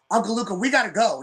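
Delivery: lightly put-on daughter voice; imitating daughter. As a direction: imitate her pressing an uncle to leave. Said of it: "it was the way she said it".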